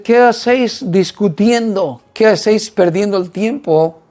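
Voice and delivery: mildly scolding, drawn-out question; retold reprimand. Jesus to the disciples arguing with Pharisees, mild reprimand. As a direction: lightly reprove them, stretching the first question. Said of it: "los reprende y dice".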